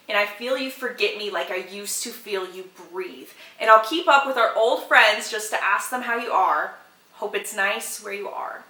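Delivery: hushed, wistful recital of song lines; reciting lyrics. Shown as a demonstration. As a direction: read the lyrics like a wistful poem. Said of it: "let me give you some lyrics".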